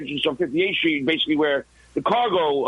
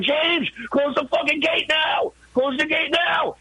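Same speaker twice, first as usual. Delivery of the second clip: high shouted order to the guard; retold scream; 12 semitones higher, slower than usual. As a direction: yell it at the gate guard, slowly at first. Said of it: "I'm screaming to the security guard".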